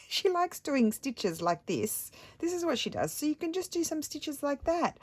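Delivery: lightly hammed-up helpful husband; mock Stefano. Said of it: "he said".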